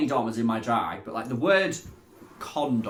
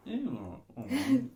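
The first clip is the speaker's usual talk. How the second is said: mock disgusted; 11 semitones higher, 5 dB quieter than usual. Mocking friend's face reaction.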